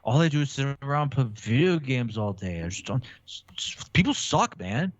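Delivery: emo voice. Pretend. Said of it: "give me emo".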